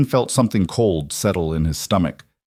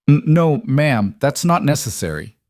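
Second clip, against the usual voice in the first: stammered, higher-pitched protest; quick refusal; 6 semitones higher than usual. A narrator's reading. Young man declining payment from ma'am, quick flustered refusal. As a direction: trip on the first word, then decline hastily. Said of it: "Ethan said quickly".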